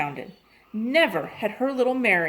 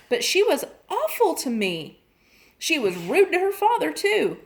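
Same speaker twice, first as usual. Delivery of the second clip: higher, worried and rising toward the end; a mother fretting over her daughter; lightly voiced upset mother on the phone; 4 semitones higher than usual. Worried mother pours out trouble.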